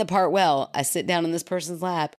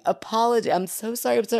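higher, flustered repeated apology; mock apologizing; 5 semitones higher, faster than usual. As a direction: act out babbling sheepish apologies. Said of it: "And then me going, "Apology".

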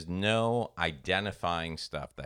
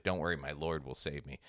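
lower, softer, serenely confident preacher; lightly voiced pious preacher, sure of rescue; calm preacher; 4 semitones lower, 7 dB quieter than usual. Preacher refusing the lifeboat, told in a joke, softly serene.

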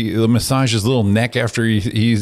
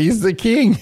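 high, hammed-up royal praise; mock proclamation; 10 semitones higher than usual. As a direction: proclaim it like a herald. Hyping up the dog as king.

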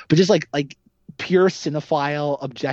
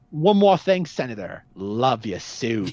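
lightly voiced killer, lingering on the parting line; mock movie villain; 5 semitones lower, slower than usual. Killer calls back the departing senator, lightly mimicked parting jab. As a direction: drop low and slow on the last words. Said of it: "he's like".

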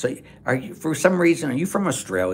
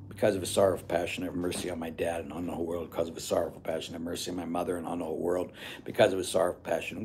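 softer, quick rattled-off chaplet prayer; personal prayer demo; 7 semitones lower, 10 dB quieter, faster than usual. Shown as a demonstration. Priest showing how to pray the chaplet personally, quick soft prayer. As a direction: murmur the chaplet fast, as if praying it yourself. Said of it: "make it personal".

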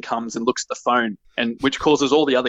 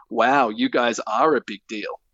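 patronizing. Acted. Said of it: "patronizingly say".

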